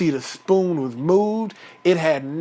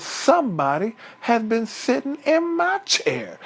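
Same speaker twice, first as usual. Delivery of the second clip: lightly voiced mama bear, a bit higher; 4 semitones higher than usual. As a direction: complain as the mother bear, pitched up. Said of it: "Mama Bear says".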